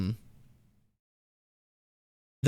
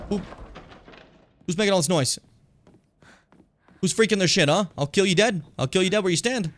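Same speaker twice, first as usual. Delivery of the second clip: mock threat; 5 semitones higher than usual.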